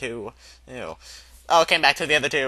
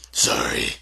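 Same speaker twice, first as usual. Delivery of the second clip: sobbing. Acted. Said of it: "sobbed Hagrid".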